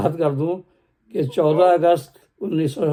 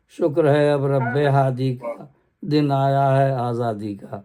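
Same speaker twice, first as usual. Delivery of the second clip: measured poem recital; stately nazm recitation; slower than usual. Acted. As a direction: declaim the stanza evenly. Second stanza of nazm. (باوقار انداز میں نظم خوانی)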